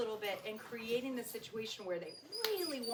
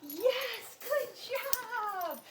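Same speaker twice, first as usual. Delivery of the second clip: calling the dog; 10 semitones higher, much slower than usual. Shown as a demonstration. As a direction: call her in across the yard. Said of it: "We'll just kind of call back and forth".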